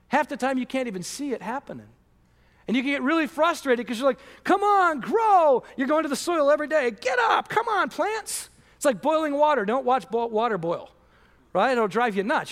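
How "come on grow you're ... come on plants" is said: impatient urging. Pretend. Mock urging plants to grow.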